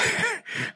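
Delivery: short unvoiced laugh mid-quote; breathy laugh. Real, not acted. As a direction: break into a quick laugh. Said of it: "I can't even say it without laughing".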